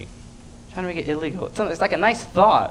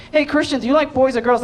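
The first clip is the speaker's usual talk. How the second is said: nosy adult; 9 semitones higher than usual. Retold or imitated. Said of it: "They'd be like".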